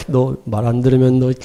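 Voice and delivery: low, quiet threat; mock threat. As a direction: imitate a bully leaning on someone. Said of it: "그냥 막 협박했다는 얘기예요".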